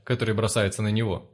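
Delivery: ordinary delivery, nothing marked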